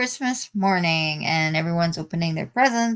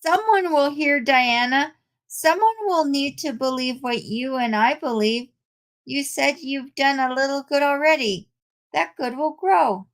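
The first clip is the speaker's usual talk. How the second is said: higher-pitched, earnest reassurance; encouraging friend Sharon; 6 semitones higher than usual. Acted. Sharon reassures Diana that someone will hear, encouraging. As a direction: urge a doubting friend to keep faith.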